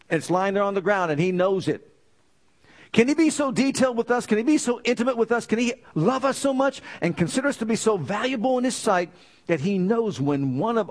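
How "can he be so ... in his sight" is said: higher, fast, marvelling questions; amazed rising questions. Real, not acted. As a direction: swept up in wonder at the detail. Preacher marvelling at God's care.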